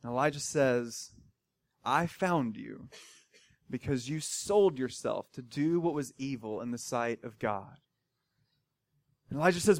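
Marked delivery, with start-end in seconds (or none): 1.8-7.8 a quiet, heavy judgment; grave prophet. Retold or imitated. Elijah answers the king in a low, grave voice.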